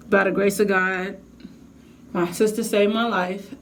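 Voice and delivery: ordinary delivery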